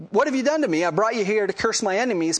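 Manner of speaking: high-pitched mock outrage; indignant king. King Balak complains in retold story.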